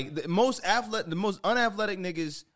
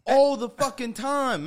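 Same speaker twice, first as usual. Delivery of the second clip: usual speaking voice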